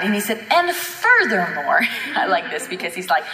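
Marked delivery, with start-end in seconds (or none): 0.5-1.8 taunting. Retold or imitated. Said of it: "shoving it kind of in the devil's face".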